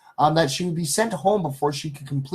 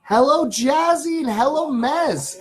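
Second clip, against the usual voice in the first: greeting viewers; 9 semitones higher, slower than usual. Real, not acted.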